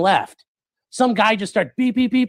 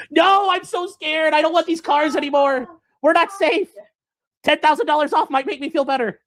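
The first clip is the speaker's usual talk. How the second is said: mock scared; 10 semitones higher than usual. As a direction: play it fake-terrified to haggle a discount. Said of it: "we should have been like".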